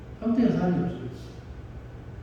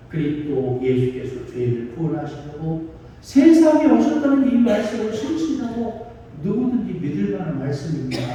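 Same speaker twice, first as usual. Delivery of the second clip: sustained, slightly raised preaching recitation; scripture declamation; 2 semitones higher than usual. Acted. Preacher recites Paul's letter to the congregation, declaimed preaching. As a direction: recite the testimony with steady conviction.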